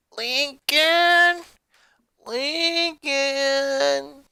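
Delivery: high calls across the street; calling out. Acted. Luna calls out searching for her lost brother. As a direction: call his name far off. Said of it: "Luna called out".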